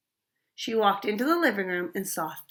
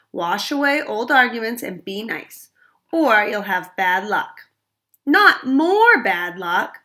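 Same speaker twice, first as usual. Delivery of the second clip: stern warning; 5 dB louder than usual. Acted. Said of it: "her mother warned".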